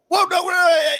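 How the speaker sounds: high, loud shout of alarm; alarmed Klansman. Retold or imitated. Klansman refuses the preacher's handshake, shrill alarmed shout. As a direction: recoil from the offered handshake. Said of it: "they're like".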